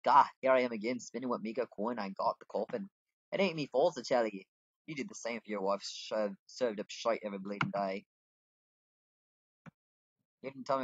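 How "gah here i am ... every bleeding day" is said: a hint of grumbling tavern regular; put-on customer voice. Customer complaining about bad food, lightly put-on voice. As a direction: grumble about your coin in character. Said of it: "that's the voice I'm liking right now".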